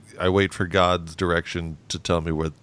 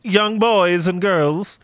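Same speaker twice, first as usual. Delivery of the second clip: exaggerated cartoon intonation; 9 semitones higher than usual. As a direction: talk to kids like a cartoon. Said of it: "I turn to the children and be like".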